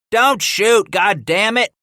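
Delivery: high, loud frantic shriek; shrieking warning. Acted. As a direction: scream it to stop the shooting. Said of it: "a voice was shrieking".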